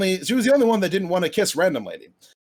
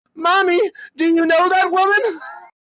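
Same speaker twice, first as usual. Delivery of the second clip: put-on very high, small, fearful little child's voice; 12 semitones higher, 6 dB louder than usual. Narrator recalling a daughter on a bench asking her mother, little voice rising with fear. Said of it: "in a little voice, rising and, with a swelling fear".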